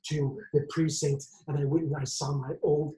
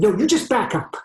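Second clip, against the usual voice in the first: raised, loud order; higher, forceful warning; sharp command; 6 semitones higher, 8 dB louder than usual. Acted. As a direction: shout them back urgently. Ordering captive to back up.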